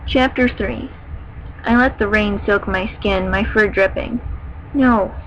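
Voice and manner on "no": raised, higher-pitched protest; a mild acted shout of shock; shouted disbelief. Son shouting at the father he just discovered, rising in disbelief. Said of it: "I shouted".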